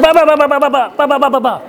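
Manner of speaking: high, laughing mock quarrel gibberish; playful impression of angry shouting; mock yelling. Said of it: "they start yelling at each other".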